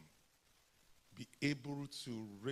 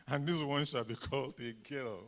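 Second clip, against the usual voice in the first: lightly voiced grand matron; mock solemn pronouncement, slowed; matronly woman voice; 2 semitones lower than usual. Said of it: "big matronly woman who goes around".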